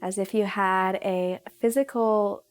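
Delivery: calm, unhurried meditation guidance; guided meditation. Real, not acted. Yoga teacher leading viewers into breathing, in guided meditation style. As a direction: guide them gently, pausing between instructions.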